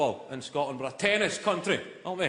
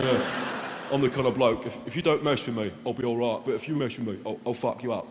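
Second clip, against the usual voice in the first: lightly voiced tough bloke, pitched low; a hint of menacing wall puncher; hard man; 4 semitones lower than usual. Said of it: "Guy's going".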